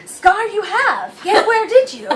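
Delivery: playful Yoda impression with a laugh; lightly voiced Yoda, inverted phrasing; mock Yoda, giggling. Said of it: "chose to be Yoda the entire time".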